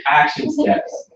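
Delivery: high, slow and rising on action; announcing the topic. Shown as a demonstration. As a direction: spell out action steps like a headline. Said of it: "I wanna talk about action steps".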